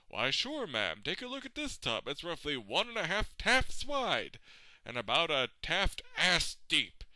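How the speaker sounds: lightly voiced obliging tub seller; imagined salesman. Imagined salesman pitching tub to customer, lightly put-on. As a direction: lightly play a salesman showing off goods.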